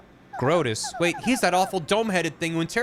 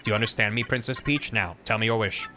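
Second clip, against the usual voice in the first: steady, patient computer; 2 semitones lower than usual. Acted. Computer lines.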